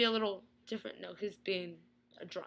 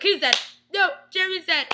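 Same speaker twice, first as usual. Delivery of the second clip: mock dismay; 7 semitones higher, 6 dB louder than usual. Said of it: "and I was like".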